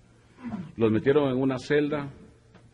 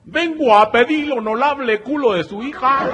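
very high, slow, overly formal voice; bow and speak with exaggerated politeness; mock Chinese suitor; 7 dB louder, slower than usual. Chinese suitor asks the bride's parents for her hand, very high and slow.

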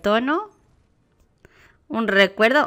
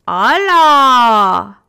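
playful hello; 9 dB louder than usual. Pretend. Greeting a cute emote.

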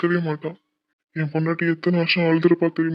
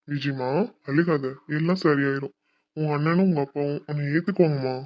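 tender consoling. Acted. Husband consoling his crying wife about her family, tenderly. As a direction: soothe a loved one who is crying.

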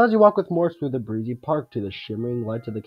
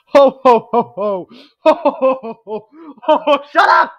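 high, loud mocking ho ho; hammed-up exaggerated ho ho laugh; 11 semitones higher, 9 dB louder than usual.

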